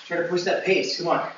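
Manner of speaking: building from urging to shouting; coach shout. Real, not acted. Coach pushing pace mid-workout.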